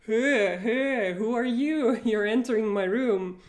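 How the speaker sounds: mild mock shout; hey, who are you, a light mock call out; startled intruder challenge. Teacher plays someone startled by an intruder, mild call. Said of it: "you say to him".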